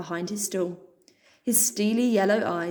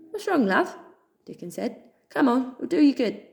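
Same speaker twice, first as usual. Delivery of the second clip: higher, louder kindly question; concerned dog; 5 semitones higher, 3 dB louder than usual. Acted. Dickon checking on tearful Pip, kindly. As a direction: coax her gently but brightly.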